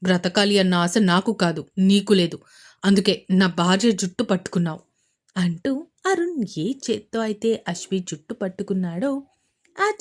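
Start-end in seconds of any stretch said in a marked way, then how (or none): 0.0-4.8 angry retort. Acted. Husband confronts wife's attacker.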